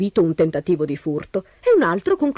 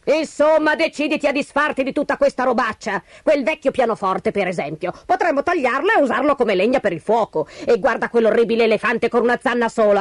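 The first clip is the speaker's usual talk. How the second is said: raised-pitch nagging, mildly cross; scolding wife; 4 semitones higher than usual. Acted. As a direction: scold your husband in a character voice. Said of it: "gridò di nuovo al marito". (moglie che sgrida il marito)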